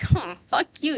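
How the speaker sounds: flirty version. Retold or imitated. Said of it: "But also like".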